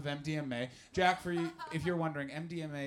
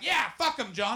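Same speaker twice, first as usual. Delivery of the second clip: mock agreeing reader; 7 semitones higher, 7 dB louder than usual. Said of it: "And they're like".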